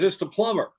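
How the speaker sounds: lightly voiced plumber. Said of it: "He says".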